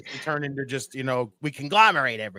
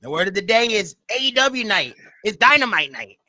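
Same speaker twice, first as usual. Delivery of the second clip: higher, announcer-style call; announcer hype voice; 5 semitones higher, 4 dB louder than usual. Retold or imitated. Declaring the word of the day in a higher announcer voice. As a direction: call it out like a show host.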